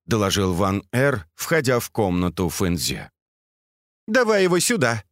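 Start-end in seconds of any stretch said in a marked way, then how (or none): 4.1-5.0 high-pitched, mildly raised command; shouted order. A narrator's reading. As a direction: call out an impatient order. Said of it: "крикнула Фэнзе".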